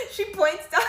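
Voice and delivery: high, giggling through the words; laughing. Real, not acted. Laughing as she recounts the girl pointing. Laughing while telling story.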